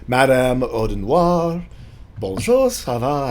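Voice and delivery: loud, high French greeting; lilting, hammed-up French accent. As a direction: warm up a put-on French accent. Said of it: "gotta get in my French accent".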